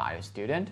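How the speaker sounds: gentle question rise ending on "student"; unforced gradual lift through "student"; natural rising intonation. Shown as a demonstration. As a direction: ease smoothly up into "student". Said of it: "非常自然的哈".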